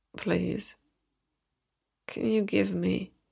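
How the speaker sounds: soft, mumbled, half-swallowed words, barely shaped. Peter, guided to the bed by Emily, asks her something; mumbled. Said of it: "Peter mumbled".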